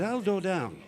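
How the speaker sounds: eager speech-defect voice, g turned to d; comic impeded consonants; Harry. Acted. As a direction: explain the plan with fronted, t-and-d diction. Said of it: "a slight speech defect".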